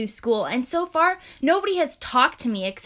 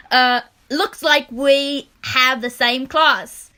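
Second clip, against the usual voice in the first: put-on British accent; 4 dB louder, slower than usual. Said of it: "I'm just going British".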